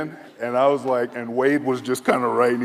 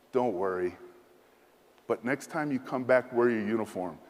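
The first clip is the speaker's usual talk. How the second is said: reassuring general; 2 semitones lower, 3 dB quieter than usual. Retold or imitated. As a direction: reassure him kindly as the general. General reassuring, arm around.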